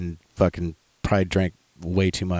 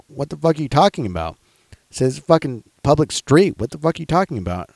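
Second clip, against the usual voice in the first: higher-pitched retold protest; indignant retort; 6 semitones higher than usual. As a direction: argue back in disbelief, pitch jumping up. Arguing back at bar staff.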